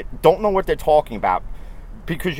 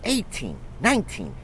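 higher, slow, heated complaint; building fan frustration; heated rant; 5 semitones higher than usual. Real, not acted. Fan outburst about the team.

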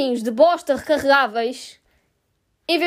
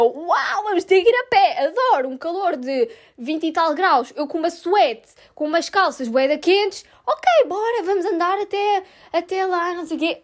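sarcastic; 3 semitones higher than usual. Retold or imitated. Sarcastic reply about walking.

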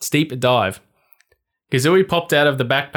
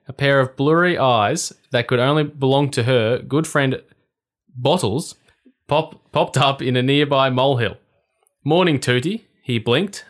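lively storybook reading voice; story narration. Acted. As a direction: read it like a bedtime story. Reads the story aloud.

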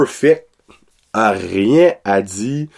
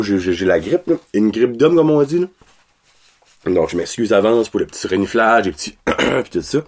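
man flu; 3 semitones lower than usual. Real, not acted. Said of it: "vous entendez dans ma voix".

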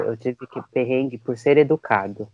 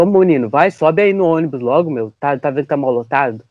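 impatient driver. Retold or imitated. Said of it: "o motorista começa".

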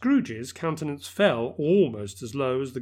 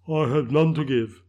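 solemn ghost voice; 6 dB louder than usual. Acted. Ghost replies.

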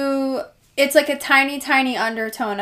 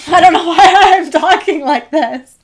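light accidental Irish lilt, higher and louder; drifting into an Irish accent mid-sentence; slip into Irish accent; 6 semitones higher, 9 dB louder than usual. Real, not acted. Cohost slips into a light Irish accent while rating. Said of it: "you just had a little Irish accent".

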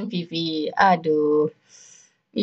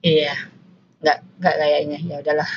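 trying to speak slowly; 3 semitones lower than usual. Shown as a demonstration. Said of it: "sekarang aku mau ngomong pelan-pelan".

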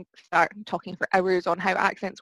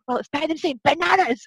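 put-on Scottish accent; 8 semitones higher than usual. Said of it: "most accurate Scottish accent".

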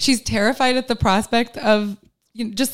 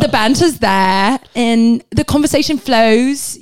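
put-on British accent; slower than usual. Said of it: "I think I do a good British accent".

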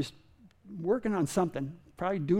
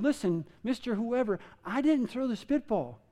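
sincere plea; 4 dB quieter than usual. Retold or imitated. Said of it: "as sincere as I".

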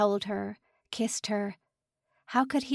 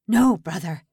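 pleading shout; 2 semitones lower, 8 dB louder than usual. Acted. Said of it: "the old man's pleas".

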